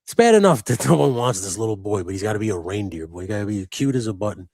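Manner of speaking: complaining to his wife about the sad reindeer boy, hammed-up outrage; exasperated protest. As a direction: whine to the wife about the cartoon's cruelty. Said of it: "I said, I said".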